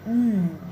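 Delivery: N as the "ng" in thing; velar nasal sound. Shown as a demonstration. Teacher introducing the American consonant sound, N said as "ng". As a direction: hum N from the back of the tongue, through the nose. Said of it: "American consonant sound".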